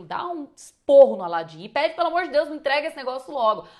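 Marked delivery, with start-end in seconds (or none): 2.0-3.7 retold frantic demand, louder and hurried; mock-desperate, rushed plea; desperate yell. Wizard begging Aladim to hand over the lamp, mock-desperate yell. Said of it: "tá desesperado. Ele grita, afoito".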